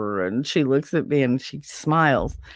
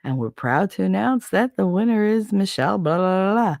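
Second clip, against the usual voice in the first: PA announcer; 6 semitones higher than usual. Retold or imitated. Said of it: "over the P A".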